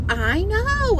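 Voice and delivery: high, loud commiserating exclamation; emphatic agreement. Retold or imitated. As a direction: agree wholeheartedly, pitch soaring. Retold commiserating with fellow shopper.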